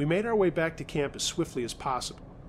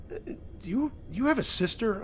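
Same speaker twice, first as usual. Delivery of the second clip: babbling; 8 semitones higher than usual. Acted. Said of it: "I babbled".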